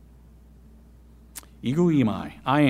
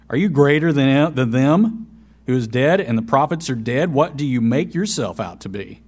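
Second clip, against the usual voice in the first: mocking Jews' challenge, louder at first, then fading; sarcastic; 4 dB louder than usual. Preacher voicing the Jews mocking Jesus, sarcastic. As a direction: sneer the question, lightly. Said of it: "I can just hear the sarcasm in that".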